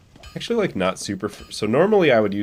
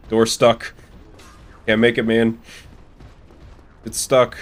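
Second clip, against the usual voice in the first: raised, louder mock-urgent call; 3 semitones higher, 5 dB louder than usual. Player stuck at the game's door, calling out. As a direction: call out in short bursts that you're jammed.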